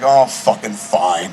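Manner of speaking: slow, low mock resignation; grudging agreement. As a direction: give in reluctantly, imitating a disappointed friend. Retelling friend grudgingly giving in.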